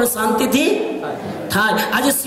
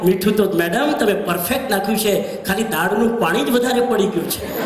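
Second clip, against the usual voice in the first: tactful. Shown as a demonstration. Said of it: "આમ બોલાય".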